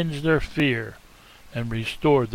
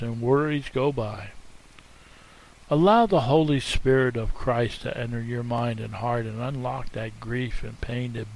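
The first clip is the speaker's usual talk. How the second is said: right in your ear. Acted. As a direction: lead them gently into stillness. Invites listeners to close eyes.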